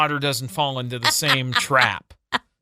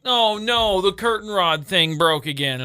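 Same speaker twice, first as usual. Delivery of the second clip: mock wife whine; 5 semitones higher than usual. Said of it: "You're like".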